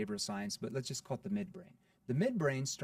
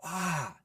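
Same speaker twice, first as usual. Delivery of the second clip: mock scream; 5 semitones higher than usual. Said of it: "like, a lady scream".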